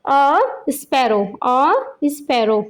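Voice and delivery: "a sparrow" very slow, each word set apart; pronunciation model. Shown as a demonstration. Teacher modelling new words for children, slow pronunciation model. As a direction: stretch out "a sparrow" for learners to copy. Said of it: "पहले इनकी pronunciation देख लेते हैं".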